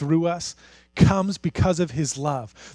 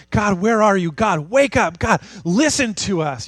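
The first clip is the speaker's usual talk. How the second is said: mildly raised, pleading cry to God; 3 semitones higher than usual. Retold or imitated. People crying out to God in suffering, pleading. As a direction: call out urgently, begging to be heard. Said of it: "they're crying out and saying".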